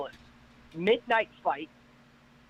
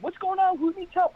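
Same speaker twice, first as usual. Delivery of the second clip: much higher, loud frantic yelling; frantic calling; 13 semitones higher, 3 dB louder than usual. Retold or imitated. Rescuer yelling at the panicked crowd, high and frantic. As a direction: shout at the crowd for answers. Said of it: "they're freaking out".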